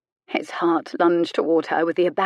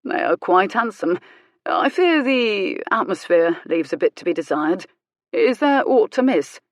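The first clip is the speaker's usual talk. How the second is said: mild; 3 dB louder than usual. Acted. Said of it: "He said it mildly".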